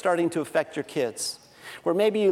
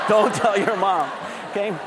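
mock-urgent dad. Father to daughter after the slide mishap, mock-urgent warning. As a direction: press the secret home, word by word. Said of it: "what every father says at a time like this".

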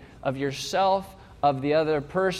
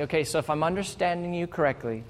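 softer, patient, calm repeating back; calmly clarifying; 3 semitones lower, 6 dB quieter than usual. Pretend. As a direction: gently restate what they said. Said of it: "You calmly clarify".

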